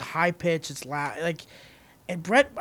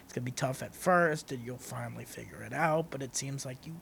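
quiet advice speech; 5 semitones lower, 9 dB quieter than usual. Retold or imitated. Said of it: "he gives me, like, the speech".

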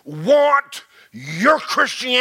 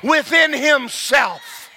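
drawn-out groan; 4 semitones higher, much slower than usual. Shown as a demonstration. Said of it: "there's no dignified way to groan".

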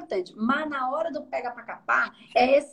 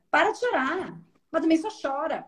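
a mock snap, pitched higher; impatient scolding; 4 semitones higher than usual. Angry fire therapist telling a crying client to stop, mock impatient. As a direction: brush off the crying with irritation. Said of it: "eu vou falar assim".

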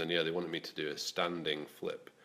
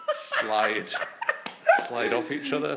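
mock panic; 6 semitones higher, 10 dB louder, slower than usual. Panicked thought while dropping guy.

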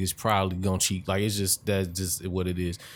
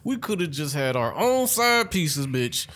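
mock furious rant; 10 semitones higher, 3 dB louder than usual. Mock rant at a cheating girlfriend.

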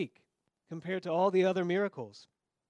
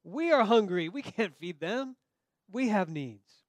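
whiny, put-out protest; hungry complaint; 3 semitones higher, 3 dB louder than usual. Acted. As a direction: complain like tired hungry men. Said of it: "They hadn't had anything to eat".

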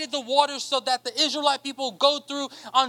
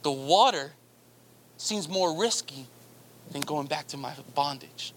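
doubting people; 9 semitones lower, 4 dB quieter than usual. Acted. People doubting God at the water's edge, low and hesitant. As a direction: mutter the excuse like a scared crowd. Humanity's fearful excuse voiced.

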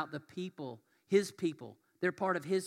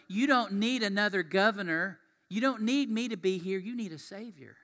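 urgent insistence; 4 semitones higher, 7 dB louder than usual. Acted. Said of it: "Nehemiah's going".

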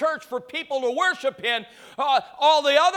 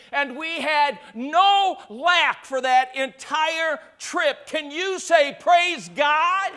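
fervent preaching. Real, not acted. Preacher testifying of a miracle to the congregation, building to a shout. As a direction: build toward a call for praise.

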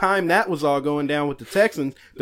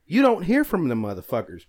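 angry; 2 semitones higher than usual. Real, not acted. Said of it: "He's mad".

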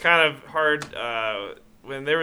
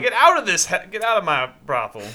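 light cartoon rooster imitation; mock-Southern blustering order; lightly voiced indignant rooster; Foghorn Leghorn; 3 semitones higher than usual. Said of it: "I need Foghorn Leghorn".

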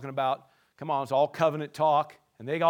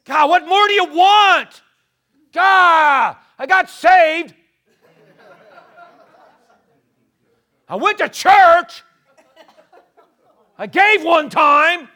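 loud, high, slow and laughing; mock whine to God; 11 semitones higher, 13 dB louder, slower than usual. Preacher mocking a believer who did the minimum, slow laughing whine. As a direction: act out a self-satisfied believer pleading his case.

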